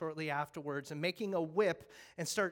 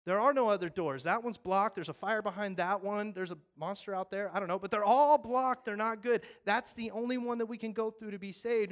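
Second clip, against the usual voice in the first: much louder, higher pleading; insistent shout; 4 semitones higher, 8 dB louder than usual. Acted. Firefighter insisting on the only exit, shouting. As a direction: insist there's only one door. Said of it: "firefighter insists".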